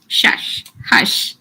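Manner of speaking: unvoiced shush to quiet class. Real, not acted. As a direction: hiss a hush at the room. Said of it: "hushing the class".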